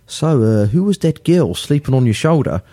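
lightly imitated New Zealand accent; a hint of a Kiwi press officer. Guest retelling a press officer's question, light Kiwi accent. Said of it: "he was a Kiwi".

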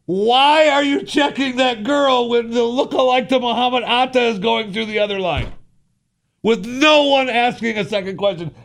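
high, fast, incredulous rant at the guard; exasperated rant. Retold or imitated. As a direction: let the disbelief pour out. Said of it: "I never finished my".

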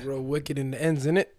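attempted London street accent. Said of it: "that was my London accent".

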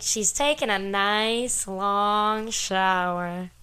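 very slow, drawn-out movie line; Ted impression. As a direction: linger on each word like Ted. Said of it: "Ted says that".

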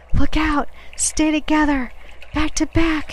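high, loud warning yell. A narrator's reading. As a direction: yell orders to men in danger. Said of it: "he yelled".

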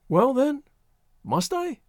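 very high, hesitant plea; timid quaver. A narrator's reading. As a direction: plead timidly with rising pitch. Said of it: "she quavered".

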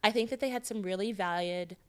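put-on lightly affected pretty-girl persona. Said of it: "You're gonna do this voice the whole episode".

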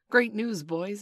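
high, loud, excited announcement; cry. A narrator's reading. Peter bringing glorious tidings to the boys, crying out. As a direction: proclaim it with glee. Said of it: "he cried".

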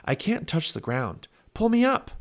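urgent call rising high and loud. A narrator's reading. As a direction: build to a loud plea for help. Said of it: "he called to Annie".

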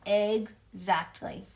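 "exactly" stretched slow and leaned on; drawn-out exactly. A narrator's reading. Teacher stresses the word to child, "exactly" slow. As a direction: draw out "exactly" syllable by syllable. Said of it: "she said the word".

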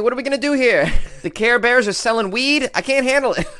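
high-pitched, rising comic disbelief; mock outrage. Mock outrage at childhood icons' downfall.

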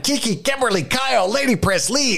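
sounding mad. Acted. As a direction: snap out each name like a roll call. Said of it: "I sound like I'm mad at them".

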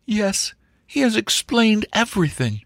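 high, earnest female voice; insistent young woman. Acted. Angela defends Wilfred to Sir Jasper, high and insistent.

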